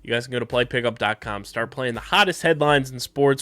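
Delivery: punchy announcer-style ad read; sponsor read. Real, not acted. Host plugging the segment sponsor, punchy ad read. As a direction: sell it like a show sponsor plug.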